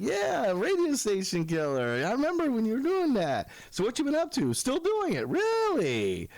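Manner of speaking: put-on high, gushing old buddy; hammed-up excitement. Old friend remembers the radio days, excited. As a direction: imitate an amazed long-lost pal.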